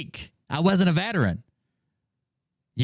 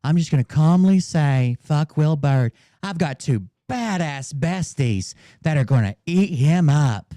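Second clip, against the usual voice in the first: mock tough-guy threat; 2 semitones lower, 4 dB louder than usual. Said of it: "The fuck outta here with that shit".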